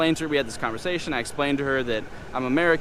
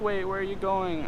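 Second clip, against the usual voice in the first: higher-pitched imitation of her surprised question; mild mock alarm in a raised pitch; retold startled question; 7 semitones higher, 3 dB quieter than usual. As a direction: mimic her, caught off guard, pitch lifted. Retold girl as he gets up.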